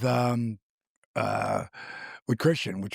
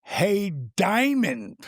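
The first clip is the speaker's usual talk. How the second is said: slow call out; 6 semitones higher, much slower than usual. Retold or imitated. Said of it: "I hear".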